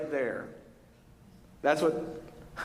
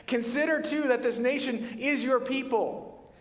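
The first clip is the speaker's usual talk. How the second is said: lightly voiced pleading prayer, a little higher; Moses praying; 6 semitones higher than usual. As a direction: ask God slowly, hands open. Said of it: "Some of your versions say".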